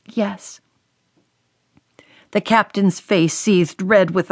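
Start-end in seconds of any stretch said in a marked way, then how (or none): 0.0-0.6 soft, trembling single word; a scared daughter's quiet yes; tremulous yes. A narrator's reading. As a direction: barely get the word out. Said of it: "just one word escaped her tremulous lips".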